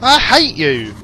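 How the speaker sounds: very high, loud hammed-up yell; screechy-high play shouting, easing off; mock angry shouting. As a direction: yell it back in overblown protest. Shouting back at the game.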